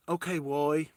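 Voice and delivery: "Roy" said as "Woy"; "Roy" starting on W, not R; mimicked mispronunciation. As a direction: imitate her saying "Roy" with a W. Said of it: "she keeps saying the "why".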